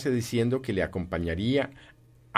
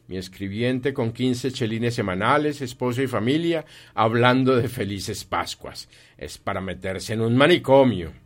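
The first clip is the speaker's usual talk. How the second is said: grumbling Scrooge; 3 semitones higher, 5 dB louder than usual. Acted. Scrooge grumbles about his clerk.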